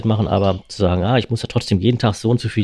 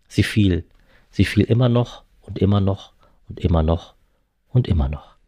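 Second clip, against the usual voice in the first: story narration. A narrator's reading. Reads novel aloud.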